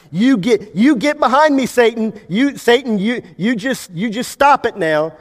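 high, stammering mock bravado at Satan; mock cocky. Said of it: "you talking all cocky to Satan".

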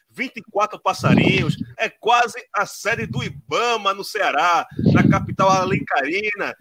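high, hyped host welcome; excited intro. Real, not acted. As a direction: announce him like a showman.

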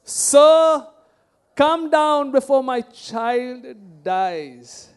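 very loud, slow, anguished plea; desperate cry. Retold or imitated. Father begging Jesus to save his dying child, desperate cry. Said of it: "can you read that again".

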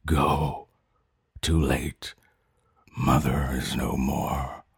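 dying mother. Acted.

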